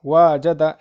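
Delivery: वाजदा with a long first aa; wrongly lengthened vowel. Shown as a demonstration. Teacher warning of a misreading, वाजदा drawn long at the start. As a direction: stretch the opening vowel of वाजदा. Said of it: "ऐसा पढ़ोगे तो गलत हो जाएगा".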